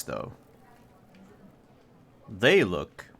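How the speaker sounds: measured narration, phrases left hanging; storyteller unveiling the scene piece by piece; game master's scene setting. A narrator's reading. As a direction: describe the scene with deliberate pauses.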